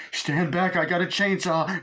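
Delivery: high, put-on warning voice; Homer. Father holding off the mob with a chainsaw, high warning. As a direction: warn everyone in a high character voice. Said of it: "Homer's like".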